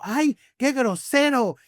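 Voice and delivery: slow, drawn-out "Ay, qué grosero" in a put-on voice, teasing; a friend teasing him about his bluntness, half laughing; mock offended. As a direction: playfully pretend to be scandalized. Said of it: "un amigo me dijo".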